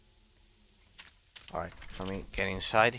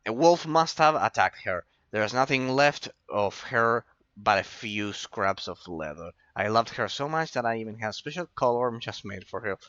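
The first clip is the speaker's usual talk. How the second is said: voicing grieving farmer. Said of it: "I'll have to do all the reading myself".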